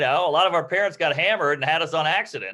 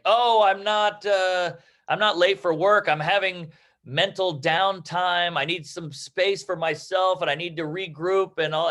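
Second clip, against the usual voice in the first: whiny excuse-maker; 2 semitones higher than usual. Retold or imitated. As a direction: play the self-pitying late employee. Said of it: "You know, like".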